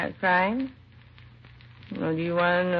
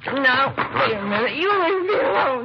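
much higher, tearful cry; 7 semitones higher, 5 dB louder than usual. Acted. Mother crying out as police take her downtown, tearful. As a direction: break into tears while pushing them away.

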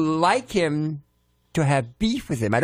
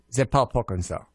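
casual French pronunciation; French phrase; 4 semitones lower than usual. Shown as a demonstration. Guest cheats the rhyme with a French line, spoken French. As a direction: say it offhand in French. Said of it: "saying it in a different language".

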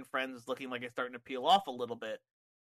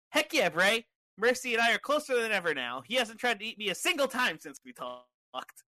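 high-pitched puppet rabbit; Ramblin' Rabbit; 8 semitones higher than usual. Acted. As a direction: answer eagerly as a high little puppet. Plays the puppet rabbit answering.

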